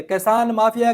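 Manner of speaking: کسان mafia spelled out slowly, each word weighted; pointed term. Shown as a demonstration. Commentator slowly mocks the official term for farmers, deliberate stress. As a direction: lean on کسان mafia slowly like a quoted label. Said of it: "یہ لفظ کچھ دن پہلے بولا گیا".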